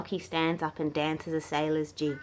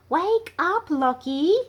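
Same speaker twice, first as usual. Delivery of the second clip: group wake-up call; 11 semitones higher, 7 dB louder, slower than usual. Acted. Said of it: "they all say together".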